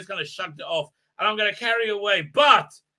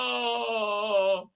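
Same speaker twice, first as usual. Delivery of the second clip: long drawn-out mock "oh"; sustained high-ish fake groan; mock cry; 4 semitones higher than usual. Acting out her capture, a long mock cry.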